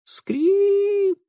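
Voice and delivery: long high drawn creak. A narrator's reading. Narrator imitating the stair creaking. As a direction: stretch it like a squeaking stair.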